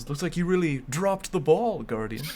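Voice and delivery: lightly voiced announcer pun; hammed-up announcer line; Shaq impression. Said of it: "I could hear Shaq's puns".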